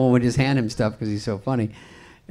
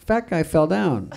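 lightly imitated little kid, higher and drawn out; slow, higher-pitched mock kid voice; six-year-old child; 5 semitones higher, slower than usual. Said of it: "your six-year-old was like".

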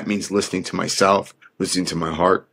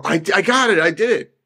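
cocky actor; 9 semitones higher than usual. Retold or imitated. Mocking Hollywood actors after one commercial, higher smug boast. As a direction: play the overconfident one-hit wonder crowing. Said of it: "They get one commer".

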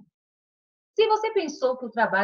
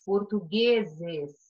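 portugueses spelled out very slowly; slow dictation; 3 semitones lower, much slower than usual. Shown as a demonstration. Teacher to pupils giving the plural, very slowly. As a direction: drag out portugueses syllable by syllable. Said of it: "Com o plural de português".

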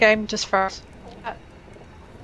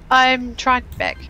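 slow glitchy robot voice; stretched robotic lag voice; slower than usual. Real, not acted. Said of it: "You're a robot again".

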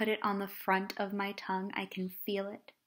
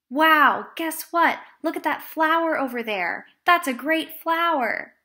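dismissive listener; 5 semitones higher, 8 dB louder than usual. Acted. Ignoring listener changes subject.

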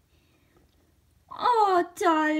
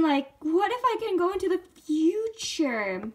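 lightly voiced scheming pony; a hint of a character voice, musing aloud; Starlight Glimmer; 2 semitones lower than usual. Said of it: "I am not good at my Starlight Glimmer impression".

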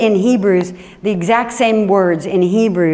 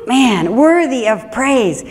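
delighted savoring; 3 semitones higher, slower than usual. Shown as a demonstration. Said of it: "I love that phrase".

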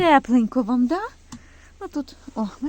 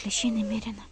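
whisper; 6 dB quieter than usual. Real, not acted. Finding many ticks on the dog.

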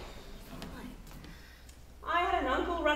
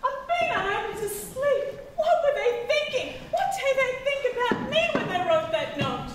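laughing; 6 semitones higher than usual. Acted. Worried mother reading note, laughing.

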